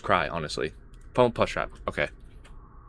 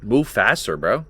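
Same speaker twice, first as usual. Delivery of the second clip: scared horror game streamer; 5 dB louder, slower than usual. Real, not acted. Urging the game in panic.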